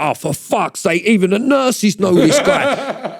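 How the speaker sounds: retelling with a laugh in the voice; laughing disbelief. Retold or imitated. Incredulous quote, laughing while retelling.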